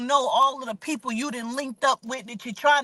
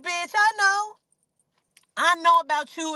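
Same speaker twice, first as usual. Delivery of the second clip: confronting; 7 semitones higher than usual. Retold or imitated. Tiny confronts Tasha, pissed.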